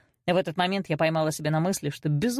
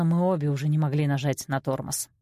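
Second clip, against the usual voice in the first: ordinary delivery, nothing marked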